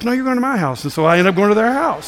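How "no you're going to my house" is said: higher-pitched retold overruling; insist, pitched up, brooking no refusal; pushy insistence. Church lady overruling a guest's refusal, imitated pushy insistence. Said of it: "those people were pushy".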